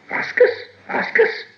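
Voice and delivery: hissy little creature voice; insistent Gollum. A narrator's reading. Gollum pressing Bilbo for the question, hissing and insistent. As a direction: hiss it out in short bursts.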